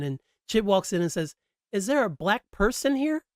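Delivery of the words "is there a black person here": imitating Chit. Retelling Chit's sketch line.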